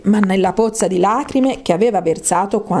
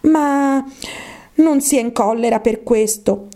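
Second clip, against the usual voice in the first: lightly voiced, coaxing heroine; mildly persuasive character voice; conciliatory Alice; 4 semitones higher than usual. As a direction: placate the mouse, voice a little raised.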